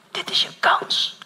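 "Dit is je kans" whispered slowly. Retold or imitated. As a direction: breathe "Dit is je kans" as a slow hush. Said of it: "tot je fluistert".

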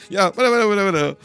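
high dismissive yo whatever; imitating Mary. Mary brushing off Evelyn, high dismissive mock voice. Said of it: "Mary like".

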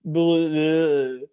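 cheeky British yob; loud British lad accent; mock British accent. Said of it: "How's that?".

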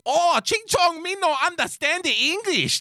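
high-pitched, exaggerated mock East Asian accent; caricatured East Asian accent. Shown as a demonstration. Co-host showing a racist impression, caricatured East Asian accent. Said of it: "if you're gonna do the racist thing properly".

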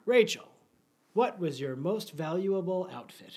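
slow, rich radio announcer voice. Shown as a demonstration. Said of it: "like, my radio voice".

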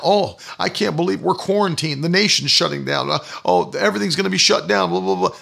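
mildly imitated worrier, trailing into blahs; lightly mocking fretful complaint; mock freak-out. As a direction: run through someone else's panic dismissively. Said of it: "and sitting there freaking out".

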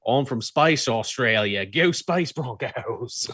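slow, hammed-up Australian drawl as a space alien; Australian accent done as a bit, slow and silly; mock Australian accent. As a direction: put on a joke Australian accent, dragging it out. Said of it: "You make Lobo sound Australian".

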